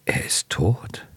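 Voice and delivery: calm, hushed near-whisper. A narrator's reading. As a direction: state it quietly and evenly. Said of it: "entgegnet Tschitschikow ruhig".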